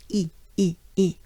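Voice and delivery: "E" as French i, a short "ee"; banana-smile E. Shown as a demonstration. Teacher picks the sound for this name, banana-smile E. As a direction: separate "ee" sounds for "E", through a big smile. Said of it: "banana smile".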